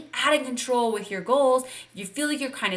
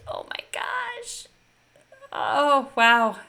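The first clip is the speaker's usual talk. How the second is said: awed gasp; 3 semitones higher, much slower than usual. Real, not acted. Coach amazed as viewers' answers pour in, breathy awe.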